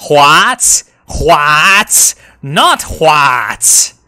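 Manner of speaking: loud, high baffled shouts; can't believe the map; shocked disbelief. Real, not acted.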